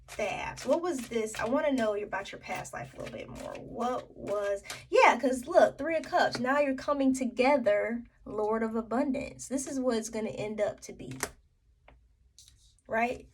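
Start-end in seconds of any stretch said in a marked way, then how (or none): 4.9-8.0 excited discovery. Real, not acted. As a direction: jump in excited at the good card. Spots good card.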